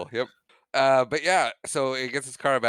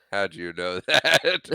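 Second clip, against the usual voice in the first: slow question broken by a laugh; laughing quote; 4 semitones lower, 4 dB louder, slower than usual. Retold or imitated. Retelling the movie, laughing through the line. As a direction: ask it slowly, cracking up partway.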